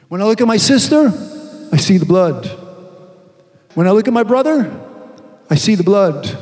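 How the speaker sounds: rhythmic chant of the repeated refrain; preaching refrain. Acted. Preacher chanting to the congregation about the blood.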